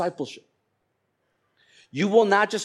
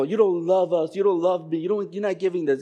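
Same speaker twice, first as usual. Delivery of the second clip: higher-pitched mock child protest; little kid complaining; 4 semitones higher than usual. Kids accusing their parents, mock complaint. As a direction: lightly voice a kid's repeated complaint. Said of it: "little kids. They always talk like that".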